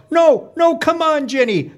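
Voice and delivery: very high pleading cheer from mom; frantic yell. Acted. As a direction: cry out desperately for the other driver. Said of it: "My mom yells".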